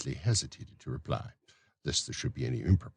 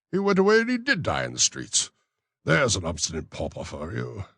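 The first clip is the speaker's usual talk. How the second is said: a higher, self-important parish beadle, louder; pompous beadle voice; 5 semitones higher, 4 dB louder than usual. Acted. Beadle to the matron, pompous higher voice. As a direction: lecture the matron grandly on the weather. Bumble speaks.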